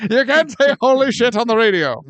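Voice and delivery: 1940s radio announcer. Pretend.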